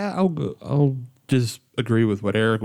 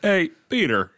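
silly character voice; 5 semitones higher than usual. Pretend. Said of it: "You just gonna go with that the rest of the episode?".

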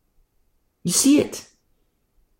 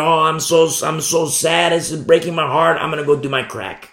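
mildly exaggerated self-pity; mock worldly sorrow; 2 semitones higher than usual. Preacher imitates the worldly sorrowful, mock woe. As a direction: act out a hint of showy heartbreak. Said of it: "If it's worldly sorrow".

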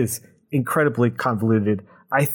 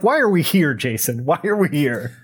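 exasperated mock plea; 3 semitones higher than usual. Reader mocking the absurd riddle to Jason, exasperated and raised. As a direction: throw up your hands at the book.

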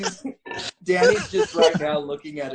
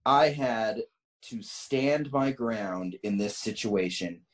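measured, deliberate story reading; story narration; 8 semitones lower than usual. A narrator's reading. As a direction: read the tale out with emphatic phrasing. Reads a written story aloud.

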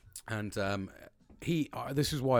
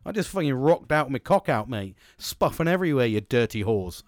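louder, carried-away mock boasting; excited rant; 6 dB louder than usual. Worker crowing at the colleagues who copied him, excited rant. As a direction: get carried away, punching it out. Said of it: "Anyway, I got excited".

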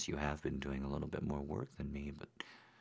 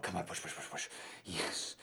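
gym bro; 4 dB louder, faster than usual. Acted. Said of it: "coach-like cheering".

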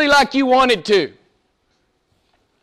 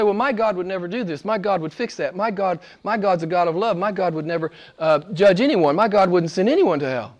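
mimicking people; 3 semitones lower, 4 dB quieter than usual. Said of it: "You hear people talk like this".

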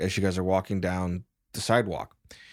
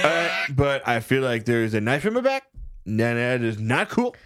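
talking through a head cold; blocked-nose sick voice; stuffy nose; 2 semitones higher than usual. Acted. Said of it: "I have a cold. So I sound like this".

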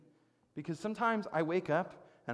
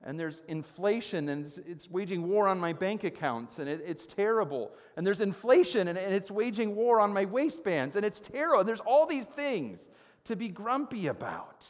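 mounting grumpy rant; 4 semitones higher, 6 dB louder than usual. Acted. Preacher listing his grievances to the congregation, mounting grumpy rant. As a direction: grumble that climbs higher and louder. Grumbling that builds over world troubles.

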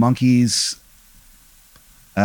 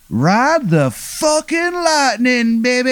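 high, slow, stretched-out victory cry; triumphant yell; 13 semitones higher, much slower than usual. Acted. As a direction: let it rip like a stern old boss finally cheering. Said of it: "And he just goes".

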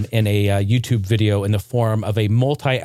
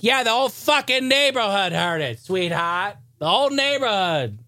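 higher, dry exasperated reply; deadpan it with pitched-up sarcasm; telling his wife the whole neighborhood heard, higher mock exasperation; 7 semitones higher than usual. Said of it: "I'll be like".

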